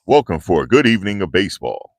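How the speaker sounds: imitating the old ballpark announcer; stadium announcer. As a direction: greet the crowd over the PA. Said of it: "He used to say that".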